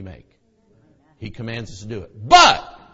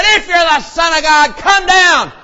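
jeering shout, much higher and louder; mocking shout; 21 dB louder than usual. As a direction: taunt him from the crowd. Mockers at the cross.

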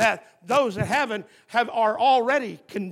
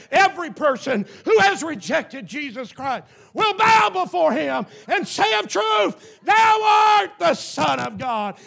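high, loud shouted sermon climax; a preacher roaring the climax, loud and high; full-force preaching; 7 semitones higher, 8 dB louder than usual. Acted. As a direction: thunder it out to the congregation.

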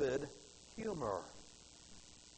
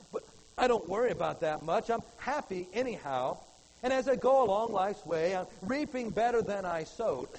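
poem recitation; 3 dB louder than usual. Acted. Preacher reciting a poem to his congregation, heartfelt recitation. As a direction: read it as a heartfelt poem, lifting the lines.

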